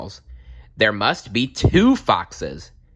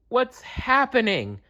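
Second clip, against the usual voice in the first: piping. A narrator's reading. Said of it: "piped up Mole".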